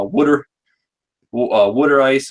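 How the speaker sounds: "water" said "wooder", Philly style; Philadelphia accent. Shown as a demonstration. Giving co-hosts examples of mom's speech, in a Philadelphia accent. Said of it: "you know, the Philadelphia accent".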